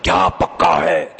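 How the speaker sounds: drawn-out mock shout; a hammed-up husband's holler; mock yell. Husband yelling at his wife on coming home, mock shout. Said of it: "घर में आके चीख के बोलता है".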